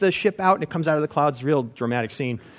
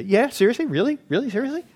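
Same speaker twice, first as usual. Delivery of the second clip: high, loud incredulous rant; hammed-up disbelieving tirade; mock outrage; 8 semitones higher, 6 dB louder than usual. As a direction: play him indignant and disbelieving. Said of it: "then he would say".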